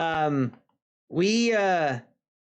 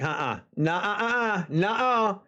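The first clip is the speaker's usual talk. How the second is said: firm refusal. Retold or imitated. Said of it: "And I'm like".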